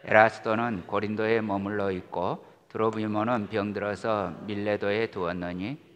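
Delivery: measured, solemn Bible reading; calm liturgical reading voice; scripture reading. Acted. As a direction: read the epistle steadily to the congregation. Reads scripture aloud.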